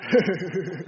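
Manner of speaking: stifled little laugh; laugh under the breath. Real, not acted. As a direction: chuckle away to yourself under your breath. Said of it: "He's laughing under his breath".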